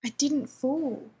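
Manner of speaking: pushing the denial out in desperation; desperate. A narrator's reading. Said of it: "John grates out desperately".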